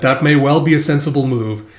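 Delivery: dry, even-toned reply; deadpan. Retold or imitated. Lloyd answering Fiona's proposal, deadpan. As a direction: agree with no visible feeling. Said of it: "Lloyd just deadpan being like".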